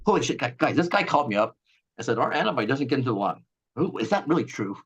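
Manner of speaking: hammed-up office panic with a nervous laugh; mock panic. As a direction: play the staff who just got caught. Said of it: "Moderna freaks out".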